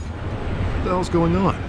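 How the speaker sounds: loud, high, slow demand; startled and angry, pulling out each word; shocked outburst. Acted. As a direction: blurt it out in disbelief. DA shocked by warrant.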